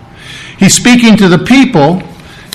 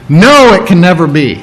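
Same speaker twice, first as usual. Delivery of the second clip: firm, measured NO, it can never be; emphatic refusal. Acted. Preacher defining the most emphatic no, firmly emphatic. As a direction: state "No, it can never be" as an absolute. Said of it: "it's the most emphatic".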